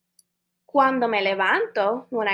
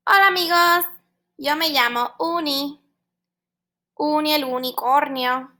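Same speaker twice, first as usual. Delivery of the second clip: unicorn puppet voice; 5 semitones higher, faster than usual. Acted.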